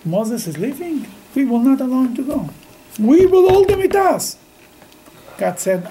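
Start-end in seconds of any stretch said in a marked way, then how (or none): 0.0-4.4 defiant refusal. Acted. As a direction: build from level to firmly raised pitch. People voiced refusing to let Moses go.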